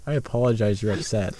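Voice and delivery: sassy, composed non-apology; calm sass. Shown as a demonstration. Friend trying out a replacement for sorry, calmly sassy. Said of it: "It sounds really sassy".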